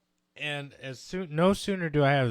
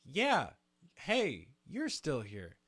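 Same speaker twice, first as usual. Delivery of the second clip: hear it as a happy greeting; misheard as friendly; 2 semitones higher, much slower than usual. Retold or imitated. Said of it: "I hear it as".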